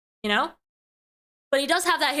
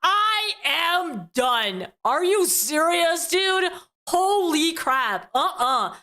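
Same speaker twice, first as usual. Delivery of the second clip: laughing exasperation; slower than usual. Real, not acted. Disgusted reaction to chewing.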